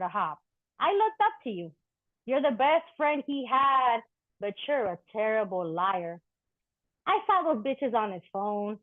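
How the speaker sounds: rhythmic poetry reading, bitter and tender; spoken-word poem. Acted. Poet addressing an ex's dog on stage, wry spoken-word delivery. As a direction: speak to the ex's dog as a verse, half hurt, half joking.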